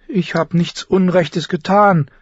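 put-on high, slow girl's plea; imploring. Sansa begs father after his decision, imploring. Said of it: "flehte Sansa ihn an".

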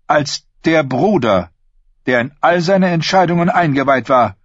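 put-on a haughty young queen, hinted; Cersei voice. A narrator's reading.

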